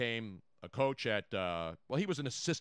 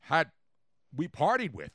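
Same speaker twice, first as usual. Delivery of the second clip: put-on Cajun, pitched up; Cajun accent; 4 dB louder than usual. Shown as a demonstration. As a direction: boast like a Cajun storyteller. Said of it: "I'm doing Cajun first".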